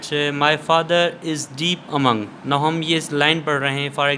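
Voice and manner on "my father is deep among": slow, measured line of verse; poem reading. Shown as a demonstration. Teacher reading a poem line for syllable counting, slow and deliberate. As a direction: read the line out slowly, word by word. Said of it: "we are reading the poem".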